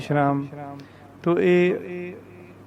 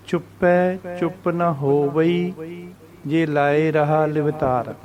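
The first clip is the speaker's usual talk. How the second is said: slow recital with drawn-out vowels; measured recitation; slower than usual. Shown as a demonstration. Teacher reciting the next verse, slow and measured. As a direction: recite slowly, pausing between phrases.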